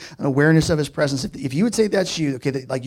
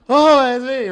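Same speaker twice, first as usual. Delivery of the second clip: 1 mock realization; 9 semitones higher, 6 dB louder, slower than usual. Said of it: "Just like".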